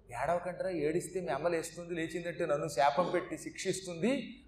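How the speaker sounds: soft hush to the crying babies; hushed warning whisper-soft; softly hushing. Retold or imitated. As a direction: quietly shush them so the mother won't wake. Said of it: "అని మెల్లిగా".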